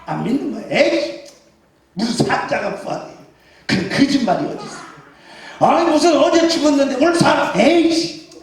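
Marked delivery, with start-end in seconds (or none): 0.7-3.0 lightly acted dismissive disbelief; mock disbelief. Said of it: "그 거짓말이야 하면서". 3.7-8.3 doubting disciple, lightly scoffing; a touch of dismissive scorn; mock disbelief. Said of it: "그 거짓말이야 하면서".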